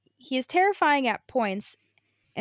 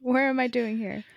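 put-on confused old person. Continues dazed bit, laughed at.

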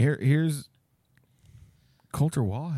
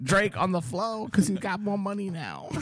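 Mike Tyson voice; 6 semitones higher than usual. Pretend. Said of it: "I sound like Mike Tyson".

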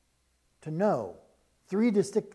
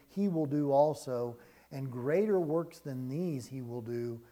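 scripture reading. Acted. Pastor reading the Gospel aloud to his congregation, measured. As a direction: read the passage steadily to the flock.

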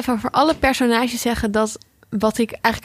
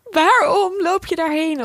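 higher, drawn-out exasperated call; mildly raised, slow voice of a frustrated viewer; mock yell at the TV; 6 semitones higher, slower than usual. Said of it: "tegen de T V ging schreeuwen". (gespeeld roepen tegen de tv)

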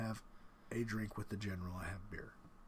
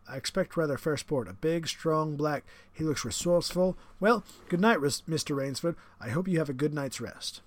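higher, louder, smug aristocratic villain; the general, menacing; 5 semitones higher, 7 dB louder than usual. Acted. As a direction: savour the threat like a proud host. General speaks, character voice.

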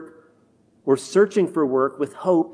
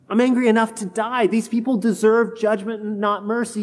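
indignant outburst, pitch up; Jonah exploding; 3 semitones higher than usual. Acted. Preacher voicing Jonah's angry outburst at God. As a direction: snap back at God in protest. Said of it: "Jonah explodes back".

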